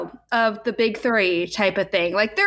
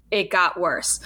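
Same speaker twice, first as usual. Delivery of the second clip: lightly voiced movie narrator; a hint of deadpan movie voice-over; 3 semitones lower, slower than usual. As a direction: drop in a slight narrator aside. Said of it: "in a movie narrator voice".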